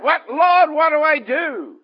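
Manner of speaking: frightened servant crying out to his Lord, pleading for help; desperate cry to God. Acted. Nehemiah cries out in fear.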